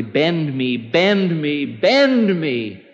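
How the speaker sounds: lightly acted plea, rising with each repeat; a touch of insistent praying; repeated prayer. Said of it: "who just prayed constantly".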